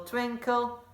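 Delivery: light high sparkly "twinkle"; lifted twinkle. Shown as a demonstration. Teacher shows the star twinkle, voice lifting. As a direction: make the word twinkle. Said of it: "you can also do a twinkle".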